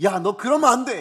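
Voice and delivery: loud, scolding shout.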